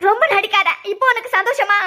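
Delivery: mildly heated accusation; angry. Acted. Woman accusing the maid of breaking the photo, angry. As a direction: confront her with a touch of anger. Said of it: "எதுக்கு கோவப்படியா".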